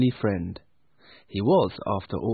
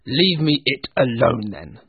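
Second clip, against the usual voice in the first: louder, sour dismissal; irritable Scrooge; 2 semitones higher, 4 dB louder than usual. Acted. Scrooge brushing off his nephew, irritable. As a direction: shut him down grumpily. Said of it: "said Scrooge".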